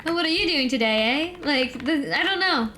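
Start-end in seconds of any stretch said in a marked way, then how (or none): 0.1-1.4 lightly imitated Canadian aunt's question; Canadian-style question with a tagged-on "eh". Imitating Canadian aunt's small talk, light Canadian "eh". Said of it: "My aunt says that all the time".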